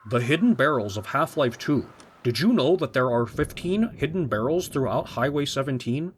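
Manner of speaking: lightly put-on documentary narrator; a hint of earnest explainer parody; mock video essayist. Making fun of hidden-barrel videos, lightly mocked presenter voice. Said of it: "making fun of".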